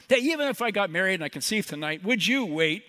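acted-out sarcastic challenge; a little sarcastic. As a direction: lay on a touch of sarcasm. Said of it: "she gets a little sarcastic".

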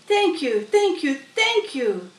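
high, loud repeated thanks; goose's thanks. Acted. Goose bowing to the barn, shameless repeated thanks. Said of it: "nodding and bowing shamelessly".

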